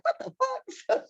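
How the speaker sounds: mother stunned by stage antics, high shocked squeal; shocked mom. Retold or imitated. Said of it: "My mama was like".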